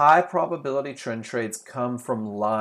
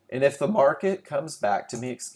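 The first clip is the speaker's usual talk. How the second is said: little crack breaking the voice mid-phrase; 2 semitones higher than usual. Explaining a limit order to the audience, the speaker's voice cracks. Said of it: "little voice crack there".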